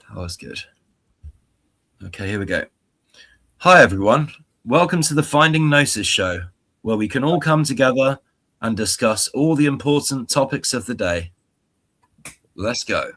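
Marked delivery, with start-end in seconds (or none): 3.6-13.1 upbeat host welcome; booming motivational welcome. Pretend. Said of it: "In your best, most persuasive, motivational voice possible. Power, please".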